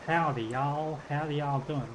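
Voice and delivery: lightly put-on American "howdy" accent. Streamer switching from Australian to a howdy, y'all American accent. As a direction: greet like a mock American Southerner.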